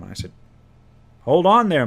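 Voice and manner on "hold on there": loud sharp call to halt; a loud, firm halt from the game master; firm call to stop. Retold or imitated. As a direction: stop him in his tracks, loudly. DM stops player from entering.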